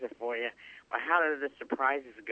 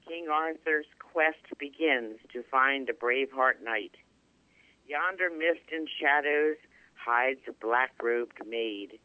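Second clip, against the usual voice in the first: poem recitation. Acted. Caller recites her King Arthur poem.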